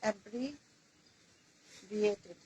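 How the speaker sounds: অ্যাব্রিভিয়েটেড drawn out syllable by syllable; slow dictation. Shown as a demonstration. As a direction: spell out অ্যাব্রিভিয়েটেড slowly for writing. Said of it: "আমি এখানে পাঁচ number লিখছি".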